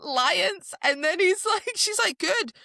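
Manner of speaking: high, loud mock argument; voicing both sides of a fight; heated quarrel. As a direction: fling the words back defiantly. Acted quarrel retold.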